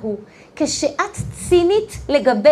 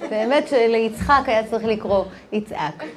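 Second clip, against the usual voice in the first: ordinary talk, nothing marked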